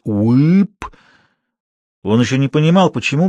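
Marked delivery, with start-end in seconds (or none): 0.0-0.9 eerie rising "uip"; a mysterious swamp cry, voice sliding up; menacing, mysterious little noise; eerie sound. A narrator's reading. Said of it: "грозно и загадочно раздавалось".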